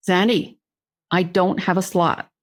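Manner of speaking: lightly voiced Southern boss; Southern accent. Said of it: "He came out very Southern".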